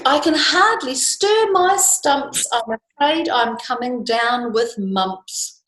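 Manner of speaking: squeaky sickly excuse. Acted. Ink fakes mumps to Custard, pitiful. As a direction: whimper a fake illness. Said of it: "Said Ink".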